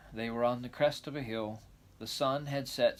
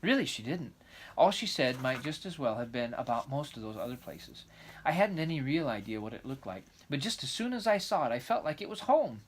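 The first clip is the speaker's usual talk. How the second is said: put-on lively, eager young girl; excited girl voice; 3 semitones higher, faster than usual. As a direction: chatter on like a dreamy child. Anne's dreamy excitement.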